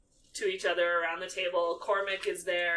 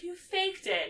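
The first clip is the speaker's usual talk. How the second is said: much higher accusing; imitating Hermione; 12 semitones higher than usual. Hermione accusing Ron, much higher. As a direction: catch him out, indignant. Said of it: "she's like".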